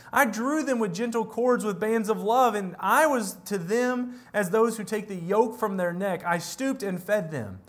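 measured, solemn Bible reading; preacher reading Hosea aloud to the congregation; scripture reading. Acted. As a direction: read the prophet's words with weight.

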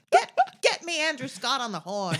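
loud, high, hammed-up order; mock casting demand. Producer demanding Andrew Scott on the horn, mock shout. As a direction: play a producer shouting for a phone.

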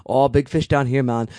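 lightly put-on Jamaican accent; mock Jamaican accent. Podcaster mimicking an actor's awful movie accent, mock Jamaican. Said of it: "doing this insane Jamaican accent".

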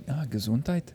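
a failed stab at a German Gesundheit; mock German blessing; attempted German accent. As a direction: try for German, land somewhere else. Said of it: "That's not a German accent".

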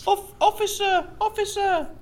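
calling out. Acted. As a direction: hail the officer across the street.

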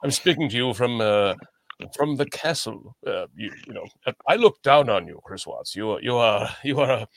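lightly posh British voice, lofty and mocking; a put-on British accent talking down to a peasant. Host mocking Chris Watts in a lightly put-on British accent. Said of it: "in my normal British accent".

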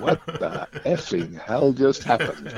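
laughing through it, slowed down; bewildered laugh at the absurdity; slow, laughing what-just-happened; laughing disbelief. Real, not acted. Stunned after gang encounter.

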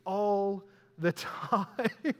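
slow, breaking into a laugh on the last word; laughing at himself. Real, not acted. Admitting his own hypocrisy to the congregation with a laugh. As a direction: chuckle through the admission.

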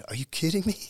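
high, loud disbelief; can't believe the fans are fighting for merch; a band member amazed by the crowd at the merch table; blown away. Retold or imitated. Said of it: "I was just blown away".

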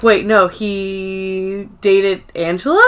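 slow, stunned question in mild imitation; lightly acted shock. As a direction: retell it as slowly sinking-in disbelief. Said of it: "She's completely shocked".

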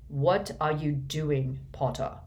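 slow, cold question. Acted. Snape confronts Harry drawing his wand, slow and cold. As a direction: ask it slowly and icily. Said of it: "said Snape coldly as ever".

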